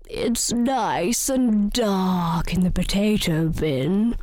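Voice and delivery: slow, low spider voice; drawn-out creepy-crawly voice; lightly voiced spider. Sally Spider suggests the potato bin, slow and low.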